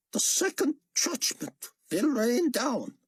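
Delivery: slow, grave prophet warning. Acted. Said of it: "Chaim warned".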